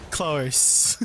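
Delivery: "Close." with an R-coloured O, like "clo-rse"; Aussie "close". Shown as a demonstration. Practising Australian vowels with a friend, R-tinged "Close.". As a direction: stretch the O of "Close." and slide an R into it. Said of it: "every time I have an O sound, I have to say R".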